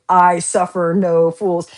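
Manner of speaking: slow, deliberate no-nonsense line; mild mock stern declaration; stern voice of the card. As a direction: spell out each word like a firm rule. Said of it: "I, you".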